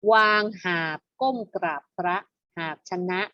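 measured classroom poem recitation; verse reading. Shown as a demonstration. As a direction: read the rhyme aloud in even phrases. (อ่านบทร้อยกลองเป็นวรรคอย่างชัดเจน)

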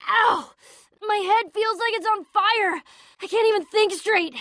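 high, agonised angry yelling; pained fury. Acted. Friend screams at the computer in his head, pained and furious. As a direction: yell at the voice inside your head.

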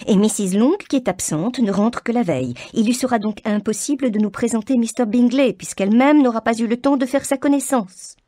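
mother rails against Mrs Long, high and indignant. A narrator's reading. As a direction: scorn for a rival mother. Mrs Bennet voice.

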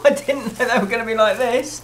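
real delight at a present; delighted exclaim. Real, not acted. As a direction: gush over the gift. Opening surprise present.

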